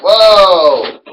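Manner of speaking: excited whoa. Acted. Commentator reacting to finisher.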